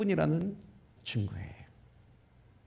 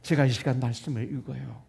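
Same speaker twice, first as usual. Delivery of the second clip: prayer; 2 semitones lower than usual. Shown as a demonstration. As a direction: pray it through in an unbroken, lowered voice. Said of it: "말씀 읽기 전에 기도하는 거죠".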